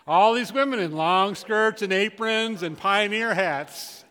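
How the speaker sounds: slow and loud, savouring the joke; amused emphasis. Real, not acted. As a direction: lean into each odd detail, grinning. Describing funny pioneer pictures.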